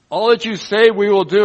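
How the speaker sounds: loud, high eager pledge; crowd's loud vow at Sinai; people pledging. Retold or imitated. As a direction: voice the people's bold promise. People's pledge voiced loudly.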